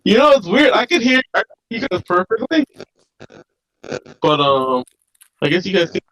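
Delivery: garbled robot-like audio over a bad call; robotic distorted line. Real, not acted. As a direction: voice mangled by a glitchy connection. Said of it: "you sound like a transformer right now".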